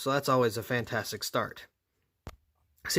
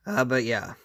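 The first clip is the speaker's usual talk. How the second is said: voice crack. Real, not acted. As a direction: voice cracking mid-word. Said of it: "very bad voice crack there".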